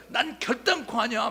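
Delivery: high, loud flat-out denial; stronger denial. Retold or imitated. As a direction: push back harder. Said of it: "베드로도 더 세게 나와야 되잖아요". (더 세게 강하게 부인하는 베드로)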